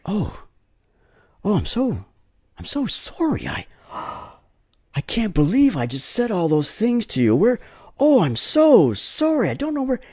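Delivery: retold with a touch of tears; tearful apology. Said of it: "she just started crying".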